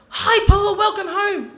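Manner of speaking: high, loud fake-cheery hello; sing-song welcome for an angry brother; forced bright greeting. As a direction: greet him too brightly, covering nerves.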